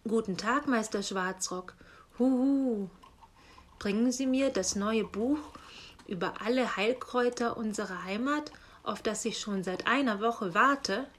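a light owl voice with hooting huhu. Acted. Uncle owl asks the raven about his book, lightly hooting. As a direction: politely hoot like an old owl.

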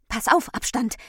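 high, loud alert; called warning. A narrator's reading. Aufmerksamkeit warns Abstand of danger, urgent call. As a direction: call out to warn a friend. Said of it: "rief die Aufmerksamkeit".

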